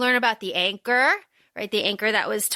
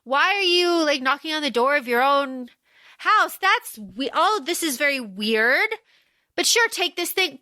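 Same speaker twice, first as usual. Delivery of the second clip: higher, bright mock surprise; mock cheerful greeting; 4 semitones higher than usual. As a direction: play it innocent and baffled. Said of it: "he's like".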